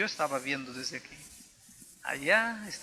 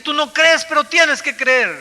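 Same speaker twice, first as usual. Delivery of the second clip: a high, loud, slow insistent voice; inner voice commanding; 10 semitones higher, 18 dB louder, slower than usual. Retold or imitated. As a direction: let the voice command him, slow and strong. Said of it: "Había una voz que me decía". (voz interior insistente, fuerte y aguda)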